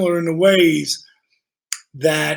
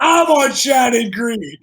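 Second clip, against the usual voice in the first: half-shouted retort, pitched up; mock shout; 5 semitones higher than usual. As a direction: bark out the street name in mock disbelief. Retold back-and-forth about addresses.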